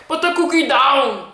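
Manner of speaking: put-on slow Austrian-accented command, lightly done; Arnold's voice. Vlogger showing how Arnold talked, mild Arnold accent. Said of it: "his voice was like".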